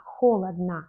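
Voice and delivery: "холодно" with the last o said as a; reduced final O. Shown as a demonstration. Teacher illustrating the unaccented ending, reduced final O. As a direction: say "холодно" as kholadna, first syllable stressed. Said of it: "donc on prononce comme A".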